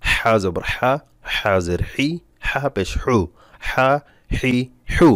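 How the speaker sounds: হা হি হু squeezed in the throat; pressed throat h. Shown as a demonstration. Teacher modelling for repeated practice, throat-pressed h. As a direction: push each h of হা, হি, হু through a tight throat. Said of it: "এভাবে বেশি বেশি পড়বেন".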